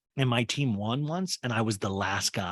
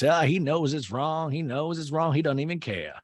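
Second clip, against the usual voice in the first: mildly worked-up, raised-pitch grumbling; imitated indignant complaint; 5 semitones higher than usual. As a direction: complain about him as if scandalized. Acting out Whitney's disapproving complaint.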